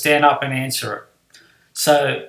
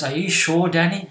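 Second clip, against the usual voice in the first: higher-pitched mock doubt; lightly voiced teacher testing a pupil; winding him up; 4 semitones higher than usual. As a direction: imitate a teacher sowing doubt. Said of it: "started winding Danny up".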